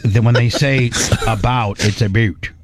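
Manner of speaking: "about" said like "a boot"; Canadian about. Shown as a demonstration. Explaining the Canadian way of saying "about", as "a boot". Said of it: "No, about is".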